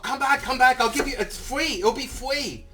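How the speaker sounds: high-pitched mock pleading; imitated pleading owner. Owner follows customer to his truck, imitated pleading.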